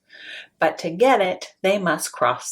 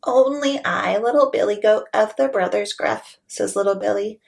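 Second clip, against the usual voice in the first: higher small goat voice; little goat; 4 semitones higher than usual. Acted. Little goat politely asking troll to pass, higher.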